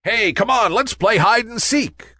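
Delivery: calling out. A narrator's reading. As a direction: call the other clouds to play. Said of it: "called Nimbus to the other clouds".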